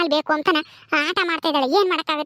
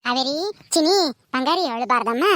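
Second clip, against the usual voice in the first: soothing pet-name coaxing; tender, lower-pitched comforting; 3 semitones lower than usual. Acted. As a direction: gently hush a crying child. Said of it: "ಎಷ್ಟೇ ಮುದ್ದು ಮಾಡಿ".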